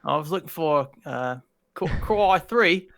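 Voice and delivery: put-on Aussie storytelling; amateur Australian accent. Shown as a demonstration. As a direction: imitate an Australian telling a yarn. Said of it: "give us the accent and a story combined".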